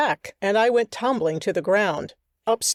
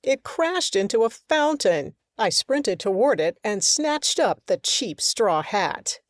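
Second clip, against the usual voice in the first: ordinary delivery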